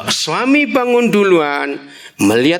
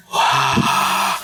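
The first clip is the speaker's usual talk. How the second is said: waking-up yawn. Acted. Husbands waking up, acted out.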